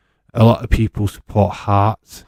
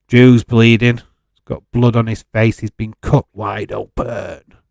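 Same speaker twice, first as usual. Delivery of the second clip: wrestling commentary; 6 dB louder than usual. Pretend. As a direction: call the bout like a ringside commentator.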